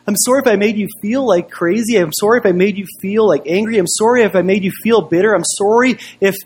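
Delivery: mildly mocking, rising sing-song list; mocking apology. Pastor parodying the other man's apology, mildly mocking. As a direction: lightly parody a half-hearted apology, item by item.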